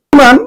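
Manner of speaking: অভিমান said as "o-bhi-man", opening on o; teacher's model of অভিমান; model pronunciation. Shown as a demonstration. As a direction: round the first vowel of অভিমান to o. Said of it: "অ উকারের মতো হবে".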